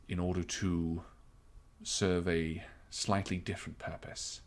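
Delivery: lightly voiced captain, deliberate and reserved; understated officer explaining a delicate matter; measured captain. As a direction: weigh each phrase, with long pauses between. Game master voices the captain.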